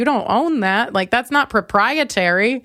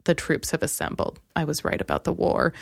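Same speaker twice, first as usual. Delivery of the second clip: lower, much softer, grim commander; Nick Fury; 5 semitones lower, 7 dB quieter than usual. Retold or imitated. Mocking the ex as a self-important commander, lower and softer. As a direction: murmur it like a grave general claiming victory. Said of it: "he thinks he's Nick Fury".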